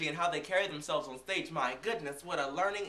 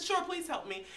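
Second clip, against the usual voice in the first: mock sweet voice; 10 semitones higher than usual. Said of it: "I said".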